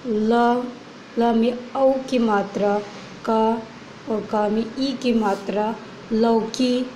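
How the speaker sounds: teacher spelling लौकी aloud; sounding out words. Shown as a demonstration. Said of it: "spelling लौकी".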